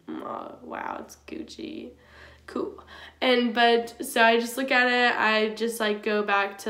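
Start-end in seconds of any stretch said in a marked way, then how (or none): 0.1-2.8 deadpan unimpressed. Retold or imitated. Her own deadpan reply.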